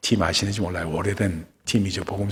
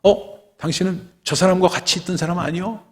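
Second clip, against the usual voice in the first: high-pitched, curious accuser; startled child spotting someone, voice lifted; small child asking; 9 semitones higher than usual. Acted. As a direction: pipe up in a high questioning voice. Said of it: "조그만 아이가 얘기합니다".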